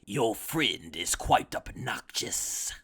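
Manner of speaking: slow, low, disdainful villain voice; Frieza's drawl. Retold or imitated. Frieza about Toppo, slow disdainful voice. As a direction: look down your nose, slowly. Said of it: "Frieza goes like".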